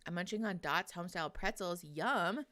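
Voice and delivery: eating while talking; crunching chips. Real, not acted. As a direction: mouth full of pretzels. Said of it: "Sorry about the crunching".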